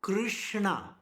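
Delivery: "Krishna" drawn out, leaning on the "Krish"; emphasized syllables. Shown as a demonstration. Teacher showing the emphasis, "Krishna" stretched out. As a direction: linger on the rolled kr and sh of "Krishna". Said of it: "Emphasis is not there at all".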